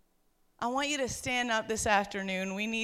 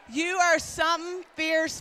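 calling out; 4 semitones higher, 4 dB louder than usual. Real, not acted. Calling out women by name.

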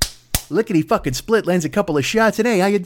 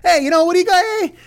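Trump as Mainway; 8 semitones higher, faster than usual. Retold or imitated. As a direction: pitch the dumb cure with a grin. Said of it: "That's who fucking Trump is".

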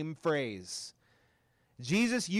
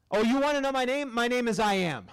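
playful God; 3 semitones higher than usual. Retold or imitated. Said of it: "God's answer voiced playfully".

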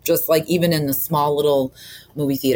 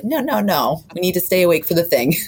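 higher, lightly voiced insistence; retold husband's protest; 5 semitones higher than usual. Husband taking her mimosa before the movie, lightly mimicked insistence.

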